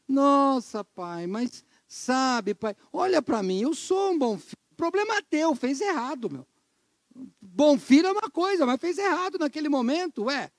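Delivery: a hint of a teenage son protesting; pleading son. (filho se justificando para o pai, em tom de protesto)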